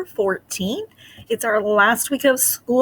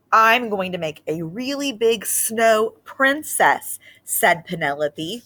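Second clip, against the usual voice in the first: put-on lively read-aloud storytelling to children; story narration. A narrator's reading. Teacher reading a Christmas book to her class, expressive narration.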